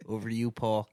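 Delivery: lightly put-on laid-back stoner; stoner host voice. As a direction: mellow hammed-up stoner sign-off. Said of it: "If you actually talk like that for a whole episode".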